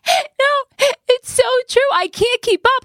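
high and bright with excitement; excited. Real, not acted. Excited agreement with friend.

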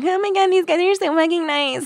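high-pitched, hammed-up delight; mock gushing. Host voices the girls charmed by the frat, mock gushing. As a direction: gush it high, imitating smitten girls.

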